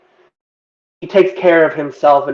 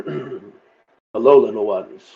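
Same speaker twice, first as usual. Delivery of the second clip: big Gudrum greeting; 4 semitones lower, much slower than usual. Acted. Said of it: "I kind of look down and say".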